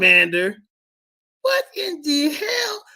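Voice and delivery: high, loud and slowed on what in the hell; disbelieving shout. Real, not acted. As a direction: yell out in mock confusion.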